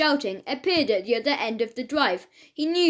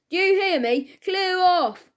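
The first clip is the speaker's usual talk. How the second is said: louder and higher, barking the order; threatening shout; 6 semitones higher, 4 dB louder than usual. A narrator's reading. Policeman shouting at the dog snapping at his ankles, angry. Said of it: "in a threatening tone".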